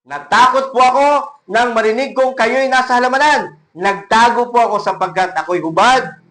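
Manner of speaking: a fearful plea, lifted and loud; frightened man answering God. Acted. Preacher voicing Adam answering God, scared and loud. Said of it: "sagot ng lalaki".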